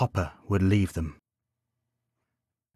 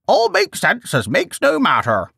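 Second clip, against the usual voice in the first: much higher, put-on old grandma voice; best grandma voice; 11 semitones higher than usual. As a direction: proudly do your best grandma impression. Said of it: "He put on his best grandma voice".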